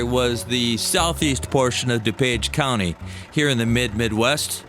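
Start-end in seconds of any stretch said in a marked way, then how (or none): none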